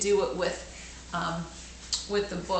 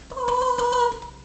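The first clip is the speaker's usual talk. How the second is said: surprised oh; 4 dB louder than usual. Real, not acted. Reacting to a child's thump.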